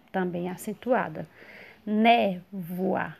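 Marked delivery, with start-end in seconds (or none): 1.9-3.2 "Névoa" in pieces, strong long NÉ; stress on first syllable. Shown as a demonstration. Teacher sounding out for students, "Névoa" with stressed NÉ. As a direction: lean on NÉ in "Névoa", then separate the ending. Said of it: "sílaba tônica né".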